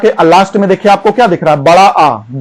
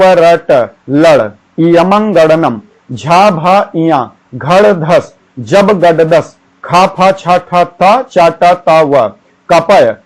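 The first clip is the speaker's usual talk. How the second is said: quick recitation; much slower than usual. Shown as a demonstration. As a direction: rattle off the sutras in one quick run. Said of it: "एक बार मैं जल्दी जल्दी बोलता हूं". (जल्दी जल्दी पाठ)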